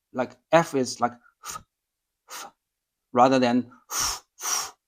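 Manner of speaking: "f" breathed lightly through both lips, no force; soft f, not the biting English one; soft Japanese f. Shown as a demonstration. Teacher contrasting Japanese and English f. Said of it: "There's no force there".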